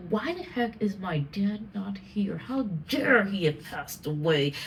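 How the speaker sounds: upset. Retold or imitated. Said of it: "I get upset".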